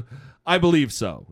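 a light imitation of a hick South African accent, hesitant; goofy South African accent. Retelling a hunter's TV interview, lightly mocking South African accent. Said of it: "in his goofy, you know, hick South African accent".

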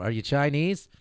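lightly voiced Norm Macdonald, rising question; a hint of Norm's deadpan, asking innocently; Norm Macdonald impression. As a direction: Don Rickles bit done as Norm Macdonald. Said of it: "I'm doing this as Norm Macdonald".

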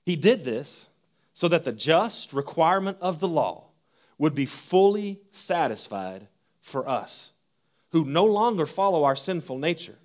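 measured reading of Romans to the congregation; scripture reading. Acted. Reads Romans aloud.

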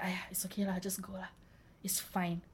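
casual Singlish "aiya, okay lah". Retold or imitated. Imitating careless friends with lah.

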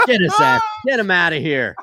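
loud twangy coach outburst; Gruden twang. Acted. Coach ordering a tackle, full twang. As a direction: start high with twang, then ease down. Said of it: "I want the full twang".

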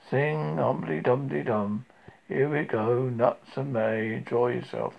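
gloomy donkey. Acted.

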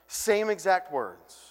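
slow, weighted words; emphatic slow. Real, not acted. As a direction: land every word.

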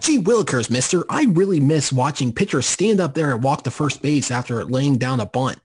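put-on gee-whiz old-timey kid voice; wholesome 1950s kid. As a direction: play it like a wide-eyed 1950s boy. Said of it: "were you like".

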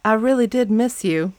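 lightly attempted Southern accent; Southern drawl. Host reads boyfriend's line to girlfriend, Southern drawl. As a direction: try a mild Southern drawl. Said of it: "let me do the drawl".

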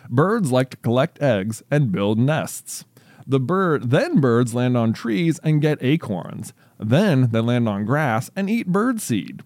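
slow, deliberate storybook reading; story read-aloud. Real, not acted. Reads child's story aloud.

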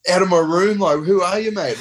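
high-pitched indignant outburst; retold confrontation. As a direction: act out startling and challenging an intruder. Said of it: "Like, going at him".

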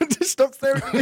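giggling through the words; laughing. Real, not acted. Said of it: "laughing while speaking".

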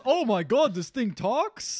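high, laughing, slow amazement; amazed. Retold or imitated. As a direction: gasp at it in delighted disbelief. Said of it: "it goes".

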